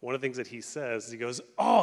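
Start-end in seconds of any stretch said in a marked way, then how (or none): 1.6-1.8 playful imitation of a teasing "oh"; mock-surprised, playful exclamation. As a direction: toss it off playfully. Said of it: "he does it, like, playfully".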